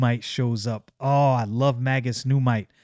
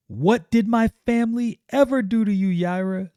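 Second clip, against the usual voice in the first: high accusing Stefania; 9 semitones higher than usual. Acted.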